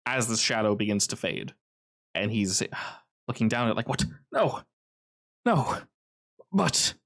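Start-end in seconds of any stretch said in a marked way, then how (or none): 3.9-6.9 disbelieving. Acted. Reginald sees shadow fade.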